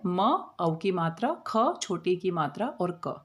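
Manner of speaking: teacher spelling out each letter slowly; name each letter and vowel sign slowly. Shown as a demonstration. Teacher to pupils, spelling मौखिक slowly letter by letter. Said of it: "मात्राओं को आपको ध्यान रखना है".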